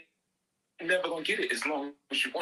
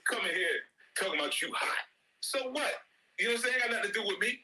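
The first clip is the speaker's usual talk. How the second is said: mocking parent; 8 semitones higher, faster than usual. Mocking child's complaint, laughing.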